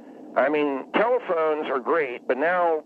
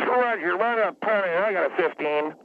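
curt cop radio lingo, raised pitch; fake radio call; 4 semitones higher than usual. Shown as a demonstration. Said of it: "I made a fake radio call".

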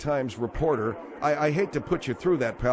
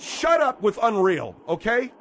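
higher, slow, emphatic telling-off; exasperated rebuke; 5 semitones higher, 3 dB louder, slower than usual. Real, not acted. Host telling the husband to shut up, exasperated. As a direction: cut him off, leaning slowly on each word.

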